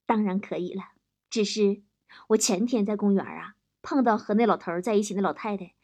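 mock tender. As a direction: play the devoted husband, lightly. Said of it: "深情地说". (略带深情，低声慢慢道来)

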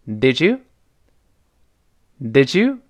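DID YOU blended as "di-jou", rising; linked DID YOU. Shown as a demonstration. Teacher repeats for learners, linked "di-jou" for DID YOU. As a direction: run DID YOU together with a j sound. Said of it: "再来一遍".

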